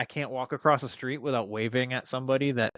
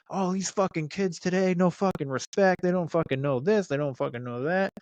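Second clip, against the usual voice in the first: imitating an angry older man yelling; ranting older guy; 7 semitones higher than usual. Older man at the gas station yelling at the speaker, mock angry rant. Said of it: "he starts going on about".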